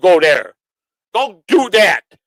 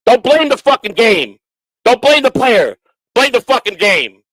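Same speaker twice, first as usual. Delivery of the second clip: angry shout; 5 semitones higher, 5 dB louder than usual. Real, not acted. Angry rant at haters.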